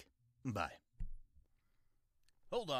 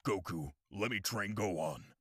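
anime character voice; 3 semitones lower than usual. Retold or imitated. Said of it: "anime impression video".

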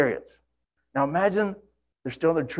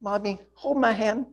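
put-on whiny child; 7 semitones higher than usual. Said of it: "how many of you thought Barak saying".

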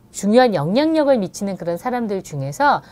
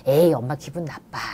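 calm mom reply; 6 semitones lower, 4 dB quieter than usual. Shown as a demonstration. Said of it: "이렇게 이야기하는 게 에이씨티거든요".

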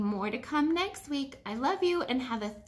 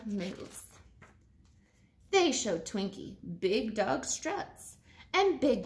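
lively storybook read-aloud; animated picture-book voice; reading to children. Acted. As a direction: read it to a class of kids.

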